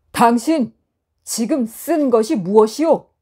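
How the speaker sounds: loud, pointed challenge; demanding. Acted. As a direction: press him hard with the question. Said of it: "따지듯이 물었답니다".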